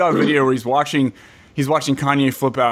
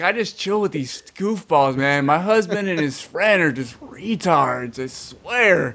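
Danielle impression; slower than usual. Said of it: "Danielle's like".

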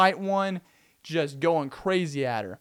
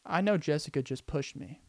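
Stacy really thinking; 5 dB quieter than usual. Retold or imitated. Stacy thinks over the push, hushed and deliberate. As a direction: muse quietly, weighing each option. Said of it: "means Stacy's really thinking".

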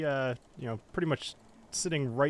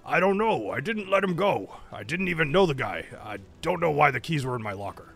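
panicked orc pleading innocence; plead, scared and rushed; distressed; 2 semitones higher, 4 dB louder than usual. Acted. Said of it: "seeming distressed".

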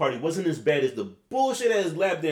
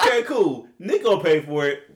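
pleased thought; 2 semitones higher, 6 dB louder than usual. Retold or imitated. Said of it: "And I'm thinking".

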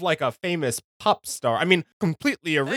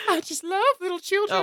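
creepy mock Voldemort; 13 semitones higher than usual.

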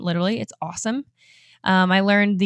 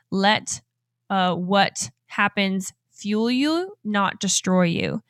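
misread, halting; much slower than usual. Shown as a demonstration. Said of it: "so I was trying to read it differently".

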